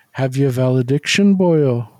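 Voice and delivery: a hint of a cold, menacing movie villain; Dudley Smith. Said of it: "ice cold".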